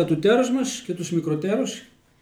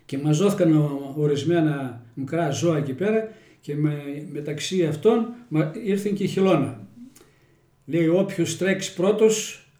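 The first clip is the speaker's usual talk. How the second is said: the hare and the tortoise told in Kozani Greek dialect; homely village fable in Kozani dialect. Shown as a demonstration. Telling the next fable to the interviewer, in Kozani dialect. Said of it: "Στα κοζανίτικα".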